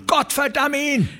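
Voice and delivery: very high, furious curse. Acted. A rancher curses Shelgram, very high and furious. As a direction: spit out the curse.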